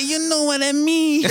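put-on a botched American accent; bad American accent. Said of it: "tried to do an American accent".

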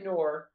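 Noor, Noah said with an R at the end; Clyde's mispronunciation. Retold or imitated. Quoting a broadcaster to co-hosts, R-ended Noor. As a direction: say Noor, ending on an R. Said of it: "that's how he says Noah".

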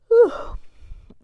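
long loud huffing sigh; impatient sigh. Acted. Cass waiting impatiently.

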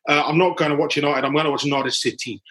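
light put-on Welsh accent. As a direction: say it in a Welsh lilt. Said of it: "I did that with a Welsh accent".

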